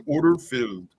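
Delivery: hint of a British trader; mild British order call; British accent. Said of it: "British guy going".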